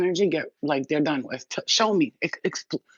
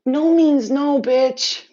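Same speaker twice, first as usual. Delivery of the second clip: emphatic no; 8 semitones higher, 6 dB louder, much slower than usual. Real, not acted. Angry rant about consent.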